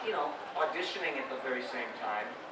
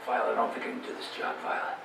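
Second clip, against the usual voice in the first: Alec Baldwin; 2 semitones lower than usual. Retold or imitated. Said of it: "I sounded like Alec Baldwin".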